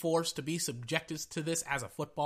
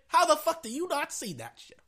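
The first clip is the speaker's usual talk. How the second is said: furious yelling; 9 semitones higher than usual. Real, not acted. Fan raging at the league over the missed call, yelling. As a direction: yell it at the refs who blew it.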